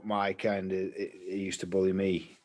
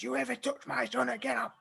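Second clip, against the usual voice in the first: mock threat; 13 semitones higher, 4 dB quieter than usual. Mum threatening the bully.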